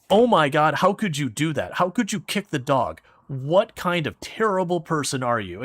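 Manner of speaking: mock scolding game. The game scolding the player for kicking the dog, mock outrage. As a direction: scold the player like a shocked parent. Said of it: "it's like".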